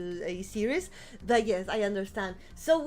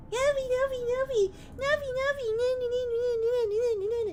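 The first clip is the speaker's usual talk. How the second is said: excited anime fan; 11 semitones higher than usual. Acted. High sing-song calling.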